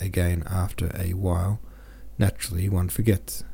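calm, even audiobook reading; story narration. A narrator's reading. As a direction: read the chapter steadily to listeners. Reads a novel chapter aloud.

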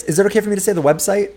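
usual speaking voice

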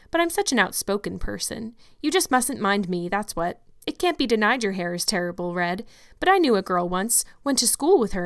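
hearty, outspoken country woman; bustling older neighbor. Acted. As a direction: talk like a blunt kindly gossip. Mrs Lynde speaks to Anne.

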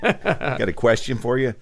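put-on half-hearted Boston accent, laughing through it; a caller putting on a Boston accent. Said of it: "I don't know how to do a Boston accent".

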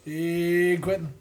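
calling from the next room; from another room. Real, not acted. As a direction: shout it through a wall from afar. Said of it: "I'm in the other room".

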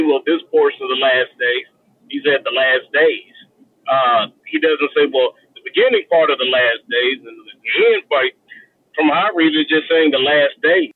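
staticky CB radio line; over cb radio. Real, not acted. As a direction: sounds like a trucker radio. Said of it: "it sounds like you're on a C B radio".

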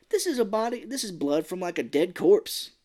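a touch of acted outrage; retold indignation. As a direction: explain it in mock exasperation. Lab guy's retold outrage continues.

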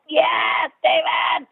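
very high, over-the-top excited cry; character actor impression. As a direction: mimic the character calling out, voice sky-high. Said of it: "and he's like that".

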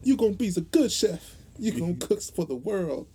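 high, loud Southern mama voice; Southern accent. Retold or imitated. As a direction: call out like an old Southern mother. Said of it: "speaking with a southern accent".

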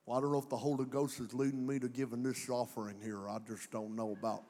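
lightly voiced Mexican accent, hesitant; a hint of a Mexican accent, unsure. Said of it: "Mexican accent 'cause I sound like my dad".

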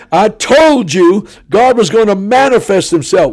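high, loud declaration of vindication; triumphant preaching. Retold or imitated. A preacher repeating his promise to the auditorium, high and triumphant. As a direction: hammer home the claim a second time.

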